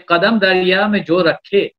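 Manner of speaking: slow measured couplet delivery; poetry recitation. Acted. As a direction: lean into each line of verse.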